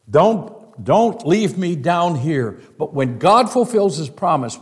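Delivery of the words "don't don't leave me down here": pleading Joseph. Acted. Joseph voiced pleading about bones.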